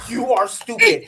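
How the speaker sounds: laughing mock yell at the phone. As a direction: shout it through a laugh. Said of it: "I was yelling at my phone".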